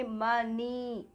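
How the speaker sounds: "मनी" drawn out as "muh-nee". Shown as a demonstration. Teacher showing O said as A, slow syllable-by-syllable मनी. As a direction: stretch both syllables of मनी, slowly. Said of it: "इसको आ pronounce किया".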